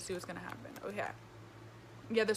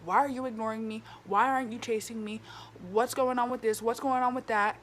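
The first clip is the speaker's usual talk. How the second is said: demanding quote; 4 dB louder than usual. Retold or imitated. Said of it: "freaking ask you".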